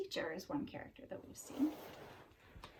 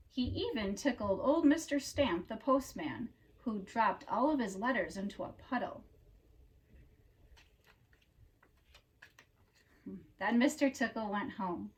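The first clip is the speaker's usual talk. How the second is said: storybook narration; 8 dB louder than usual. A narrator's reading. Reader telling children about Mister Tickle, storybook narration. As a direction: read it like a picture book for children.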